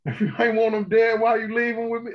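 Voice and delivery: a hint of indignant gangster; Mouse. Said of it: "that gangster ass".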